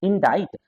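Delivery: इंडाइट ending in "ait", no k; silent-C pronunciation. Shown as a demonstration. Teacher gives the correct word, इंडाइट with silent c. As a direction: rhyme the end of इंडाइट with kite. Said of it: "सी silent होता है".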